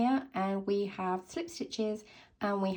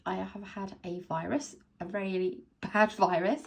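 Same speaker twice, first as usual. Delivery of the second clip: hoarse, sore throat voice; talking through a sore throat. Real, not acted. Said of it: "Sorry about the sore throat".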